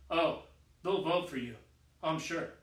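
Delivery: a hint of a scheming emperor; mild menace. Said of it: "grows very fierce, glint in his eye".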